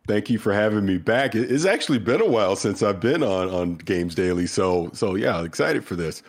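stuffy nose from a cold; a bit congested, nasal. Real, not acted. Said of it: "If I sound a little nasally".

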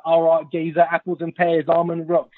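light imitation of a Cockney geezer, barely shifted; a touch of Cockney wide-boy swagger; mock Cockney accent. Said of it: "the whole, like, Cockney, Cockney boy vibe".

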